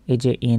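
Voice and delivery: "ইন" held on a nasal n; gunnah. Shown as a demonstration. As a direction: hum the n of "ইন" before moving on. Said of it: "টেনে পড়ছে একটু". ("ইন"-এ গুন্না করে টান)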